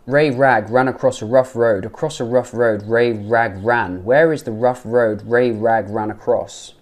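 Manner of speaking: emphatic, untrilled R starting "Ray Rag ran"; loud tongue-twister, each R in "rough road" rounded and smooth; practised British R. Shown as a demonstration. Teacher drilling the R sound, emphatic untrilled R in "Ray Rag ran". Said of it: "You gotta really work on that R".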